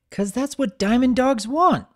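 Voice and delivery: high, grinning little filly. A narrator's reading. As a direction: say it through a grin. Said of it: "Sweetie Belle grinned".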